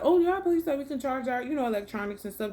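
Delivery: high, eager customer-service voice that sinks by the end; chipper staff voice. Retold or imitated. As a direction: mimic a perky clerk, bright at first, fading out. Quoting hotel staff offering charging.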